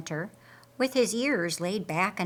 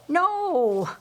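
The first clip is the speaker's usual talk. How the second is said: a sharp, high no; firm no; 8 semitones higher, 6 dB louder than usual. Acted. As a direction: cut her off with a quick no. Laz refusing to leave.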